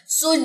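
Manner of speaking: सुज with the stress wrongly pushed onto the ज; wrong stress demo. Shown as a demonstration. Teacher shows students the wrong way, stress on सुज. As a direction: show the mistake by hitting सुज hard on the ज. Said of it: "अब इसको ऐसे नहीं पढ़ना".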